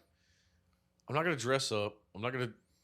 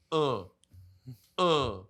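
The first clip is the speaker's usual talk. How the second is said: short grunts, spaced apart; imitated lumbering grunts; slower than usual. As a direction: mimic a slow, plodding walk in grunts. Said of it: "he was walking like".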